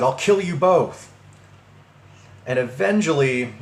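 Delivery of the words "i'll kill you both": higher, drawn-out mock threat; retold scream. Caller threatens to kill two people, retold higher scream. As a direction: imitate the raging man's yell. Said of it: "he screams at me".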